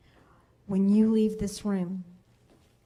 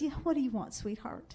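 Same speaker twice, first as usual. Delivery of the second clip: mama voice; 3 semitones higher, 7 dB quieter than usual. Retold or imitated. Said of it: "the one that mama goes".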